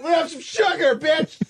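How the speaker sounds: high strained manic yell; belligerent sugar addict. Pretend. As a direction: shriek like a crazed junkie. Sugar-crazed bender rant.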